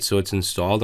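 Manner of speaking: ordinary delivery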